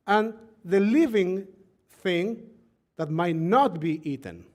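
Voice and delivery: deliberate reading, phrase by phrase; slow scripture reading. Real, not acted. Rabbi reads the law on pure and impure, slowly. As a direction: read slowly, pausing before each key term. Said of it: "I will read slowly".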